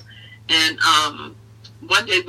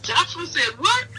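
high, slow disbelieving question; surprised; 11 semitones higher than usual. Retold or imitated. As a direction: stretch out the what in disbelief. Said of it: "I'm like".

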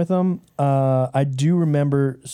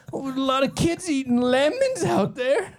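lightly raised, put-on old man; old neighbor voice; 9 semitones higher than usual. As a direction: play a nosy old guy, half-laughing. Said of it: "What are these voices?".

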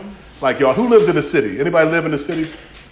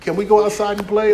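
high, chirpy dog without a care; giggly pet voice asking for treats; carefree dog voice; 5 semitones higher than usual. Retold or imitated. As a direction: voice the happy oblivious dog. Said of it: "She's like".

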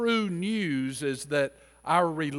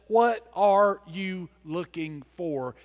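pointed, direct; 2 semitones higher than usual. Shown as a demonstration. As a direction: cut through with a blunt question. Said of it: "He gets straight to the point".

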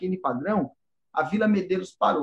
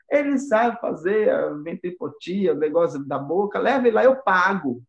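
bossy godmother; 3 semitones higher than usual. Retold or imitated. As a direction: push it like a pushy godmother. Godmother offering to pay.

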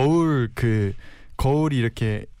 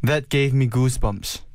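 slow careful repeat; much slower than usual. Shown as a demonstration. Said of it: "그러면".

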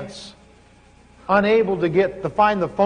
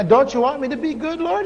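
higher, plaintive question; plead, a bit put out; whiny plea; 6 semitones higher than usual. Retold or imitated. Preacher retells questioning God, mildly whiny plea.

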